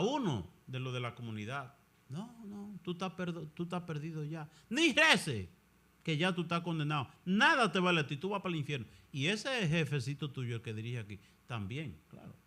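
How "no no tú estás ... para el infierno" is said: a hint of the devil, taunting and condemning; lightly voiced devil telling him he is lost; devil's voice. Devil from the crucifix taunting a friar, lightly voiced condemning. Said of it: "el diablo hablándole desde el crucifijo".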